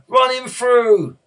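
high, drawn-out bloodthirsty yell; loud heckler's demand for a kill; shouted. A narrator's reading. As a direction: yell it slowly from the stands. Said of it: "someone shouted".

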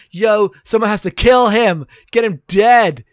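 high, punched-up angry order; insistent, hammed-up demand with hard stresses; mock demanding. Wife ordering husband to kill Ryan, mock demanding.

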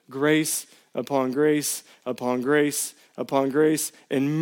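put-on the Father gently welcomes his broken child; tender fatherly voice. Voicing God the Father's reply.

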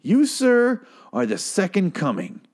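high-starting, emphatic mock gratitude; gushing admirer. Grateful woman praising the politician as godlike, hammed-up reverence. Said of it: "And she was like".

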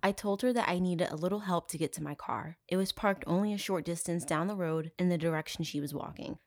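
mock English affectation; lightly put-on British voice; fake British accent. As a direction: imitate him in a phony British accent. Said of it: "speak in a fucking fake British accent".

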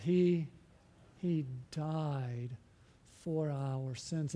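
slow, low and hushed; grave, deliberate. Real, not acted. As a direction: let each word land slowly and softly. Slow, solemn correction of wording.

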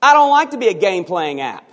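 high, loud complaining app; whining app. Pretend. The Versus app complains to its maker Brock, high and whiny. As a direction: sulk like a toy that wants out. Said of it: "what if the Versus app said to Brock".

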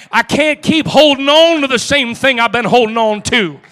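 building preaching. Acted. Preacher urging the church, rising fervent preaching. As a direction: climb in fervour line by line.

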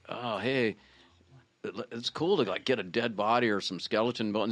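low-key, downbeat goth imitation; gloomy goth. Goth bandmate musing about bones, gloomy and subdued. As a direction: mumble it softly, mock gloomy. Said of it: "he was all gloomy".

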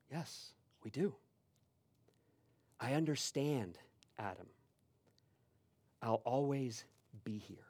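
soft, low voice of a comforting stranger; gentle reassurance. Retold or imitated. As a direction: reassure quietly, dropping away at the end. Stranger turns to comfort Adam.

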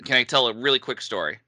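usual speaking voice

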